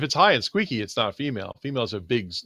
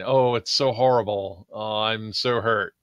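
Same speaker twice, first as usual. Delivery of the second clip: mock pain; 4 semitones lower than usual. Player feigns pain for the character.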